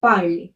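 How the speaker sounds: "पार्ले" in two syllables, par-lay; accented final É. Shown as a demonstration. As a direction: end "पार्ले" on a clear ay. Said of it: "क्या हो जाएगा?".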